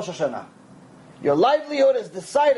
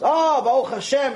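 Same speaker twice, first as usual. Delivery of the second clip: lifted, relieved acted reply; thankful Baruch Hashem; 3 semitones higher than usual. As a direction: open with a grateful "oh", lightly acted. Waterman now answers thankfully next day.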